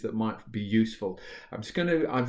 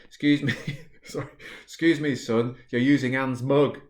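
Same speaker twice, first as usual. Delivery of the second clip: fussy staff woman; 3 semitones higher, 4 dB louder than usual. Acted. Staff woman correcting the new student.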